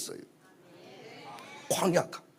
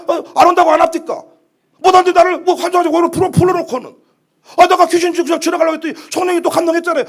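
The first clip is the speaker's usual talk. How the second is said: high, indignant mock complaint; acted protest to God; 4 semitones higher, 5 dB louder than usual. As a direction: plead your case to God, stumbling over the words. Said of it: "이때 우리는 묻잖아요". (하나님께 따지듯 항의하는 연기)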